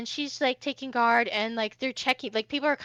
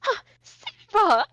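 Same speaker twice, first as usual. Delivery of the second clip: high, loud, drawn-out theatrical greeting; effusive Hoshi; 8 semitones higher, 6 dB louder, slower than usual. Acted. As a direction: gush slowly and grandly at an old acquaintance.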